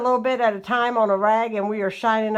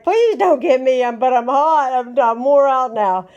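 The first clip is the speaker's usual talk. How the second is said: imitating husband; 3 semitones higher, 5 dB louder than usual. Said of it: "He's like".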